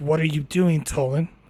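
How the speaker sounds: quiet muttering under the breath, as an aside. Voicing a character who asks Tolan what he's doing: muttering under his breath. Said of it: "mutters, you know, some, you know, under his breath".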